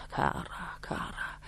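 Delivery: softly, almost a whisper; under his breath. A narrator's reading. King speaking under his breath to the queen. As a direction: murmur it privately. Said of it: "sottovoce rivolto alla regina".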